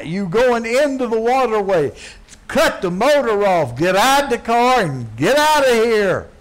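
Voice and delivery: high urgent yelling, pleading to stop; frantic warning shout. Retold or imitated. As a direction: scream the warning at the driver, desperate. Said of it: "the guy comes screaming up to your car".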